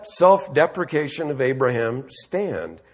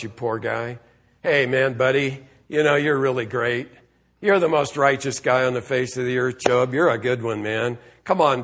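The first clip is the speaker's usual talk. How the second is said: mock consoling; 4 semitones lower than usual. Preacher imagines God comforting poor Job, mock consoling. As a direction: play a casual, coddling pep talk in a lowered voice.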